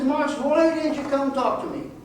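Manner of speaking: high, loud imitation of a big man; squeaky voice. Family friend reproaching the farmer for not asking, imitated squeaky voice. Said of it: "the squeaky voice, he says".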